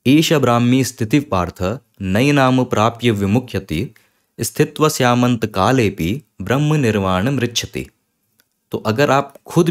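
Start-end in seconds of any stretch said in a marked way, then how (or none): 0.1-7.9 steady chanted Sanskrit recitation; shloka recitation. Shown as a demonstration. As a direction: recite the Gita verse evenly. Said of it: "ये भगवत गीता का एक श्लोक है".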